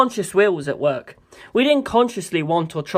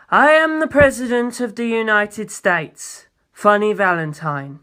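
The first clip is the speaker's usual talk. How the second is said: presidential self-introduction; 3 semitones higher, slower than usual. Acted.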